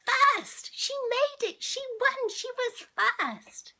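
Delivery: high, loud shout of joy; excited cheer. Real, not acted. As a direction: cheer her victory. Reader cheers the race win.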